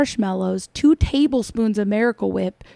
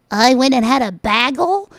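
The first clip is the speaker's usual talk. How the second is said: imitating Amy; 2 semitones higher, 3 dB louder than usual. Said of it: "Sometimes you say".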